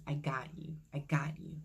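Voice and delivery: soft, hushed retelling of a voice in the ear; quiet inner voice. Retold or imitated. Voice in her ear after the cancelled job, softly imitated. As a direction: drop the volume, imitating a reassuring inner voice. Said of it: "I heard something in my ear".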